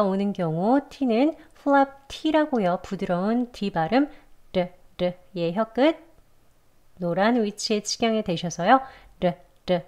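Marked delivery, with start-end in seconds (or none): 2.8-5.1 르 as a soft, light D-like tap; soft flap T. Shown as a demonstration. Teacher showing learners the flap T, 르 tapped softly. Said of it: "이렇게 부드럽게 소리를 냅니다". 9.2-9.8 르 as a soft, light D-like tap; soft flap T. Shown as a demonstration. Teacher showing the tongue position, 르 tapped softly. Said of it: "이렇게 부드럽게 소리를 냅니다".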